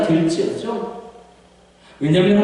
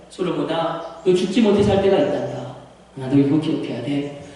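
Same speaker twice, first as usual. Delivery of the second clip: lower, softened fatherly counsel; fatherly confiding; 6 semitones lower than usual. Acted. David confessing to his son Solomon, subdued fatherly counsel. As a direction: confide it gravely to your son.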